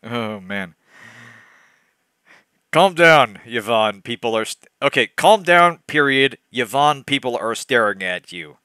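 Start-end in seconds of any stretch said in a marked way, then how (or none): 2.7-8.6 a hint of a worried friend; mildly urgent, hushed pleading. Friend urging Yvonne to calm down, lightly worried. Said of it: "said Penelope worriedly".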